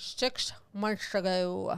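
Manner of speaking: put-on grumpy cartoon villain voice. Reading out an update, doing a Grinch voice as a joke. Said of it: "I was going for the Grinch".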